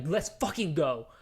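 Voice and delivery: punchy, hyped outburst on the swear; excited fan reaction, retold; hyped cheer. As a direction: cheer it on with relish. Cheering on a film's killing.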